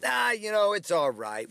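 high "ah" dropping into a casual brush-off; pretending it's fine. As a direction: wave it away, hiding the hurt. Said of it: "When inside you wanna scream out loud".

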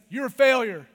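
loud, hard accusation; accusing evil voice. Acted. Evil accusing you to shame you, loud and harsh. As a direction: hurl it as a loud condemnation. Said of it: "can distinguish tone of voice".

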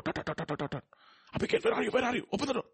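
high calling through the door; shouting. Retold or imitated. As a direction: call out high and sharp. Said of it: "Why are you shouting at me".

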